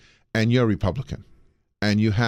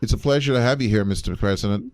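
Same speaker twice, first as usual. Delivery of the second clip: quick Midwest-accented line, a touch faster; Midwest accent demo. Shown as a demonstration. Showing his partner the Midwest accent, quick and light. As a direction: show how a Midwest voter says it. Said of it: "let me give you the accent".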